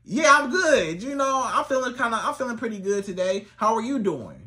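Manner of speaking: bubbly and friendly; enthusiastic. Shown as a demonstration. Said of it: "give it a little more enthusiasm".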